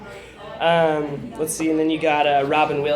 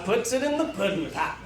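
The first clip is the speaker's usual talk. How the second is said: lightly voiced Cosby mumble; Bill Cosby impression; 5 semitones higher than usual. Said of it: "my Bill Cosby".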